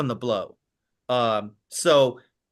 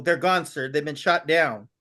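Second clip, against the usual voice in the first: lightly voiced officer reporting losses evenly; a hint of a steady officer, no alarm in it; calm, matter of fact. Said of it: "very calmly, very matter of fact".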